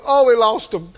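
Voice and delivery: hammed-up mourner's moan; mock moaning. Preacher mocking mourners over relatives who moved, mock moaning. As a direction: moan it as pretend grief. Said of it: "you wouldn't moan and go".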